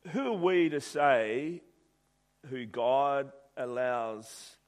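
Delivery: slow, emphatic rhetorical questions; preacher challenging the congregation, slow and weighty; preaching. Acted. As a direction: lean on each question, slowly.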